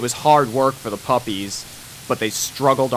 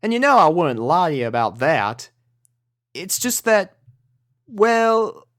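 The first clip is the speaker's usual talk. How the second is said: Southern farm pony; 5 semitones higher than usual. Acted. Applejack voice.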